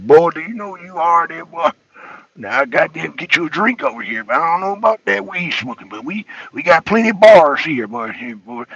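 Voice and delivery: imitating Columbus locals in a country Georgia accent; mock Columbus accent, telling a newcomer where to drink. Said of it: "That's how I learned my accent".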